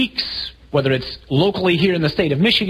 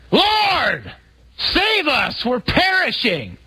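pitched high, yelled cry for help; yelling over the storm; 10 semitones higher, much slower than usual. Acted. Disciple at the front of the boat yelling to Jesus, high panicked yell. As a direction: shout it across the wind. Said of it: "one of us yells to the back".

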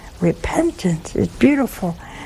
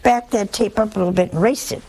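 sheepish apology. Retold or imitated. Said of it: "and I say".

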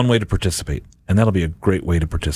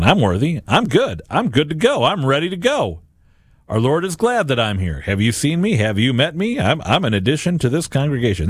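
mock arrogance. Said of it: "we're so arrogant and prideful".

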